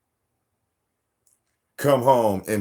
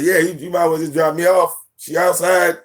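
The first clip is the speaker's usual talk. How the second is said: higher, louder, imitating a demanding kid; lightly voiced daughter; bossy daughter; 7 semitones higher, 5 dB louder than usual. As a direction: order him around like a spoiled child. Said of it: "He's like".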